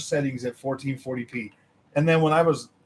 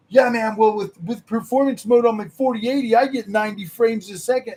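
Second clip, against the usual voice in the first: higher, louder smug-dude voice; hammed-up smug gamer; mocking smug fan; 8 semitones higher, 6 dB louder than usual. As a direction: imitate a know-it-all bragging about frames. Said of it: "and then they're like".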